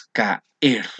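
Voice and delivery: CAER said slowly as "ka... er", a break between the vowels; vowels separated. Shown as a demonstration. Teacher showing the class a hiatus, vowels separated. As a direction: split "caer" into two slow syllables, ka-er. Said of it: "se desunen, no se van a unir".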